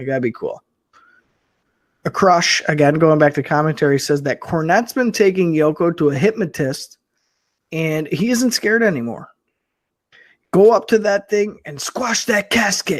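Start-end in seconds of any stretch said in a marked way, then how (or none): 10.5-13.0 mock heated screaming. Retelling what a commentator said: imitating someone screaming. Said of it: "he's, like, screaming at this point on commentary".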